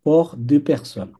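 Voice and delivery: very slow, clear pour deux personnes; slow model. Shown as a demonstration. Teacher asking student to repeat after her. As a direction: say it slowly for the student to copy. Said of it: "আমার সাথে সাথে বলবেন".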